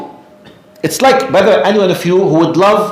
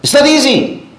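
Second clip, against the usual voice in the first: not hit much higher; emphatic; 10 semitones higher than usual. Real, not acted. Preacher insists to listeners that it is hard, emphatic.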